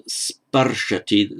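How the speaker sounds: sparshati with stressed SPAR; strengthened first vowel. Shown as a demonstration. Teacher giving the hypothetical form, first-syllable stress on sparshati. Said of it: "strengthening the vowel from ri to ar".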